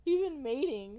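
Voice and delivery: high SpongeBob voice. Acted.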